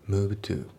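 "move to" with the D of moved left out; reduced, linked "move to"; dropped D. Shown as a demonstration. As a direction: run move straight into to, no d. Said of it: "movedのDが抜けますね".

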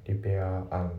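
"リペアアン" with the final D left off; teacher's demo of "repair an"; linking demo. Shown as a demonstration. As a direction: sound out "リペアアン" without a D. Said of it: "リペアアンドのところがリンキングで".

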